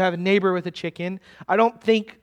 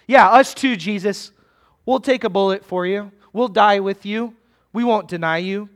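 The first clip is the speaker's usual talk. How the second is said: eager vow; 5 dB louder than usual. Acted. Disciples jump in to match Peter's vow, eager and loud. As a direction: shout it out so Peter can't outdo you.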